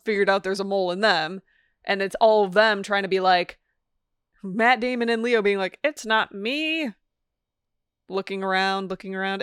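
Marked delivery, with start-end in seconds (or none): 5.8-6.9 slow, higher mock old-timey newscaster voice. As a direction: stretch it out like an old radio newscaster. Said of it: "old-timey newscaster voice".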